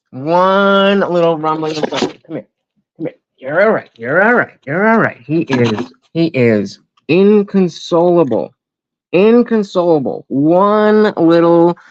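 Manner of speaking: goofy, hammed-up pet-owner voice; silly talk. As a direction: stretch key words with exaggerated swoops. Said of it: "It is fun to talk silly".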